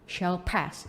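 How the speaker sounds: very slow, drawn-out proverb; "This too shall pass" stretched slowly, word by word; slow quote. Shown as a demonstration. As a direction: lay it out slowly and solemnly. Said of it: "udah nggak heran kalau dengarnya".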